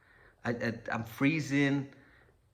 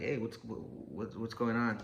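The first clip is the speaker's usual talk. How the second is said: fake groggy; 5 dB quieter, slower than usual. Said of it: "I just pretend like".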